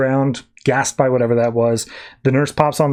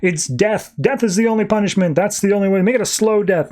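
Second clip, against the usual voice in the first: higher-pitched zealous councillor; mock bloodthirsty verdict; 6 semitones higher than usual. Part of the council calls for death, mock zealous. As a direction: demand the harshest sentence, pitched up.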